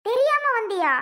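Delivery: shocked question; surprised. Acted. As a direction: pitch jumps up in disbelief. Mother hears husband doesn't know.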